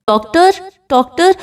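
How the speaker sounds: frantic cry for the doctor; calling for the doctor. A narrator's reading. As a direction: call out for help in a panic. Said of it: "doctor کو آوازیں لگانے لگتا ہے".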